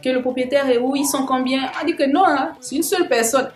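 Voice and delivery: mock disbelief at one person's load; surprised customs officer. Customs officers amazed one person owns nine bags, incredulous.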